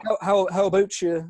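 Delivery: put-on teasing Canadian accent. Teasing a possible Canadian listener, mock Canadian accent. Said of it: "you can make fun of accents".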